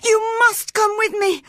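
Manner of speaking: high, loud, desperate screaming; terrified boy screaming for Cathy to stay; wild scream. A narrator's reading. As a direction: scream as if your life depends on it. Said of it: "screamed Linton wildly".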